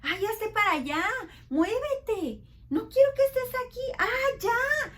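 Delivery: loud, high hammed-up yelling; child yelling at others to move away; mock angry shout. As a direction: shove everyone away like an angry kid. Acting angry child shoving others.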